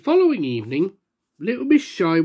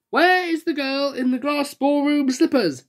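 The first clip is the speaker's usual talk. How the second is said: higher, slow call across the hall; 7 semitones higher than usual. Acted. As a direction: search the room for the girl. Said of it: "called Little Miss Splendid".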